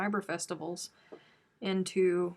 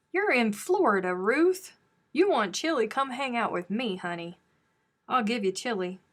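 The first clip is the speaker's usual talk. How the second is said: mock scolding friend; 3 semitones higher, 5 dB louder than usual. Teasing friend who's cold in Florida.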